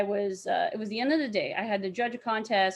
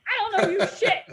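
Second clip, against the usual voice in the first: laughing mock yell; 10 semitones higher, 5 dB louder than usual. Reenacting yelling at the fan.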